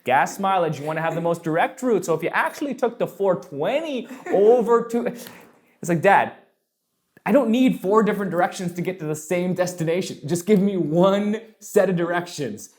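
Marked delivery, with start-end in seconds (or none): 0.0-5.1 a hint of a Canadian accent; lightly voiced Canadian dad changing his route; dad reconsidering, in mild mock Canadian. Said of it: "I gotta get the Canadian voice on". 6.0-12.7 mildly exasperated plea to dad; acted pleading, slowing down at the end; mock exasperation. Acted complaint to rambling dad.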